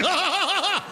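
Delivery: very high, laughing coo; teasing house. Retold or imitated. Stoned comic tickling his house in an earthquake, high laughing coo. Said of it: "I'm like".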